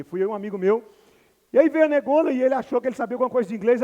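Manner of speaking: ordinary talk, nothing marked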